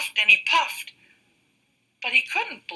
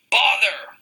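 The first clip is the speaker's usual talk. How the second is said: mild growl; 5 semitones higher, 4 dB louder than usual. Acted. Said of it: "growled the wolf".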